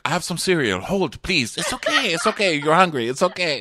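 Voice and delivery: high, rising imitation of eager soothing; hammed-up fussing suitor; mock frantic reassurance. Acting out him frantically reassuring her.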